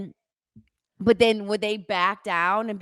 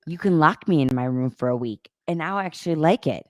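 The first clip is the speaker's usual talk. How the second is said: with attitude; 3 semitones lower, faster than usual. Retold or imitated. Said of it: "with the attitude".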